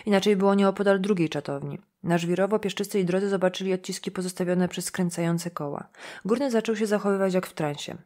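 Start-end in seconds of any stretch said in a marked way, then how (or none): none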